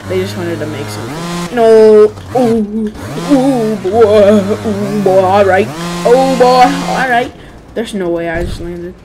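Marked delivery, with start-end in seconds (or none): 1.5-7.3 excited. Real, not acted. Tense moment in game.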